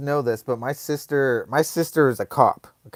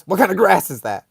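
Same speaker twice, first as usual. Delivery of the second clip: angry mom; 4 semitones higher, faster than usual. Retold or imitated. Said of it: "She was pissed".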